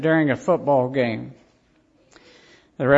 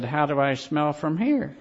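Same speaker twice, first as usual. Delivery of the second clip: wry referee line with laughter. Retold or imitated. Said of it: "And he said".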